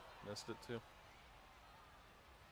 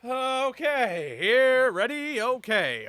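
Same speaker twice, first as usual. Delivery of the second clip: higher, louder, strained after choking; 10 semitones higher, 9 dB louder, much slower than usual. Real, not acted. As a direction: gasp it out, slow. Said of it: "The water went down the wrong pipe".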